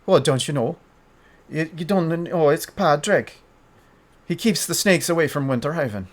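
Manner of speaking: playful, exaggerated Irish brogue; overdone Irish accent. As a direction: lay the Irish on a little too thick. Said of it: "I'm trying to do an Irish accent".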